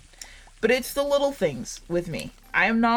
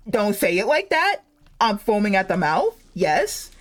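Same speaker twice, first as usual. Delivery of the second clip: louder, playfully over-eager reply; excited mock outburst; 4 dB louder than usual. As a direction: act out being wildly keen. Acting out eager reply to mom.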